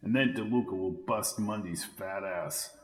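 hushed voice. A narrator's reading. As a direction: speak low while hiding. Hiding in trunk, planning.

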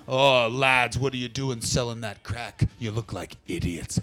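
low, lightly voiced stern old Brit; Bitterman scolding. Bitterman telling off crack dealers, low and stern. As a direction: scold the lads like a weary grandad. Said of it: "Bitterman to the rescue".

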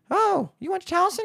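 high-pitched imitation of a woman acquaintance; cashier's surprised greeting. Cashier to forgotten schoolmate, surprised greeting. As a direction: lilt it up in mock pleasant surprise.

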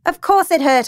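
high, loud, angry retort; snapped. A narrator's reading. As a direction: snap back impatiently. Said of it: "I snapped".

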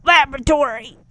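hammed-up mad scientist shout. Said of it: "mad scientist impression here".

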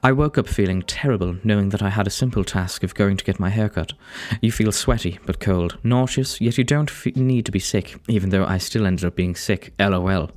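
put-on British storytelling voice; narrated confession in a British accent. Real, not acted. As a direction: read it out in an English accent. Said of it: "talking in a British accent".

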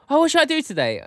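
high, lazy mock voice of a friend; hammed-up aimless student. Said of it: "he's like".

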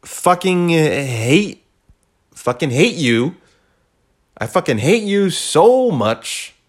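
loud, high, slow furious venting; furious outburst. Real, not acted. Ranting at the old job that let him go, furious and loud. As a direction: spit out real hatred, drawn out.

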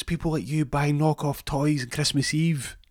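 high, slow put-on sneering voice; slow high villain voice. Hernandez taunting Rory through the door, slow high sneer. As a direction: drawl the punchline in a silly villain voice.

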